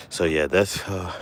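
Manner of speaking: winded, catching breath. Real, not acted. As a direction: talk while still out of breath. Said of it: "excuse me, I'm a little winded".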